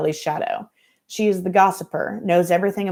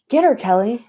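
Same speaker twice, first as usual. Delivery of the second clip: high, louder gleeful cheer; 6 semitones higher, 6 dB louder than usual. Acted. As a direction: egg her on loudly from the crowd.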